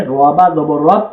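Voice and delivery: letter-by-letter Arabic spelling drill, held firmly. Shown as a demonstration. Teacher showing how shadda is read, firm spelling chant. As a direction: spell it out evenly with weight on each syllable. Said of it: "এখানে শক্ত করে".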